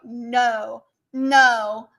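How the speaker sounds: "no" in an attempted American accent. Shown as a demonstration. Streamer showing chat how Americans say no, American accent. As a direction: try saying "no" like an American. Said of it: "how do Americans say no?".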